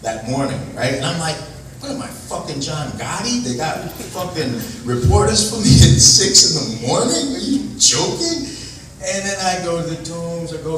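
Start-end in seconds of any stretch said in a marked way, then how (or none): 1.8-8.5 rising, stretched out in disbelief; incredulous disbelief. Retold or imitated. Recalling the reporters at six in the morning, incredulous.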